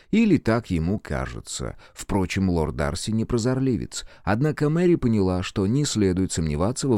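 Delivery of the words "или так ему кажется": usual speaking voice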